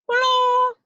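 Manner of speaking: high, loud delighted greeting; a squealed hello to a treasure chest; excited hello. Pretend. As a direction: greet the box like an old friend.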